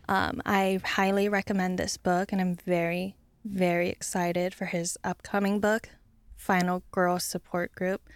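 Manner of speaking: flat vocal fry monotone; deadpan fry, voice flatlining; Kardashian vocal fry. Pretend. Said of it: "I have to find the vocal fry".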